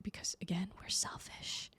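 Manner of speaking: soft whispered aside; admitting a shared fault to viewers, whispered; confiding whisper. Real, not acted. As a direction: let them in on a secret, whispered. Confiding aside about selfishness.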